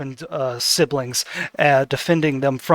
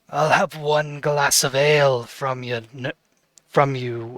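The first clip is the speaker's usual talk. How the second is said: first try noble voice. Acted. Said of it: "he wouldn't say it like that".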